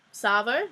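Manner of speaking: Savo with a questioning rise; unsure pronunciation. Real, not acted. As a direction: try out Savo tentatively, rising at the end. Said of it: "Is that how you say it?".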